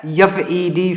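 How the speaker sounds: spelling out. Shown as a demonstration. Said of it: "फेड लिखा हुआ है".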